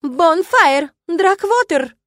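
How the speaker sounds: loud, high shouted surnames; furious dean calling culprits in; thundering summons. A narrator's reading. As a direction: roar the names through a doorway. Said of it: "прогрохотала из-за полуоткрытых дверей".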